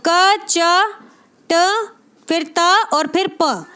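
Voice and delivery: क च ट त प named one at a time with pauses; spaced-out letter recital; reciting letters. Shown as a demonstration. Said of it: "मूर्धन्य में कचट तप".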